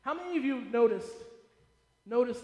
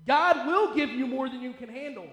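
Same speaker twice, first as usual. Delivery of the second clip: "will" hit hard and falling; stress on will; 3 dB louder than usual. Shown as a demonstration. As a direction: lean on "will", it's a promise. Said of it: "The truth is".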